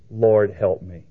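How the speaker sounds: low, simple prayer; childlike sincerity. Retold or imitated. Woman just worshiping him, childlike sincerity. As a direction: ask with unadorned, childlike trust. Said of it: "the childlike sincerity that this woman showed".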